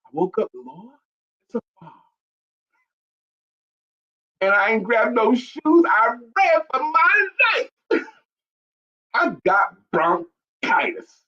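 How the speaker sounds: lightly hammed-up eyewitness, dragging out the last words; imitating viral interview lady. Retelling a favourite viral clip to co-host, hammed-up imitation. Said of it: "That lady that said".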